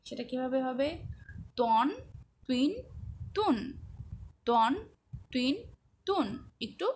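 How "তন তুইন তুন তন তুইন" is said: "তন, তুইন, তুন" said thick and heavy, lips rounded; heavy rounded toa sound. Shown as a demonstration. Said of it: "তোয়ার উচ্চারণ কিন্তু একটু মোটা করে".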